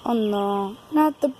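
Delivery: begging for mercy, rising to a cry; mock pleading. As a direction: plead with the bird, hammed up. Begging the bird for life.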